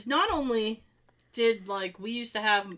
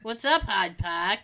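put-on Boston accent. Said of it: "stretch out our accents".

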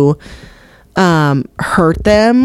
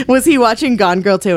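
ordinary talk, nothing marked

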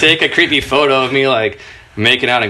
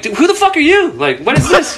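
laughing mock outrage; 13 semitones higher than usual. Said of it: "I'm like".

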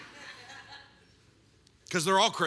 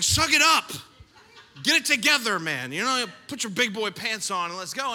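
tough love. Retold or imitated. His blunt advice to nervous father.

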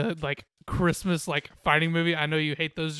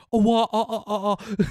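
imitating dolphin noise; 3 semitones higher, 5 dB louder than usual. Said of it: "Imagine if he, like, was like".

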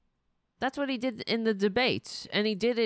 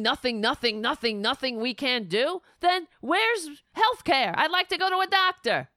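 ordinary talk

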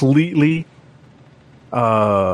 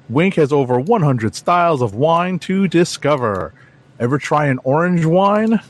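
ad read. Acted. Reads a sponsor ad.

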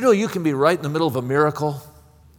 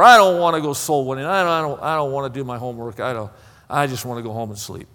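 mock discouragement; 2 semitones lower, faster than usual. Voices a discouraged believer giving up.

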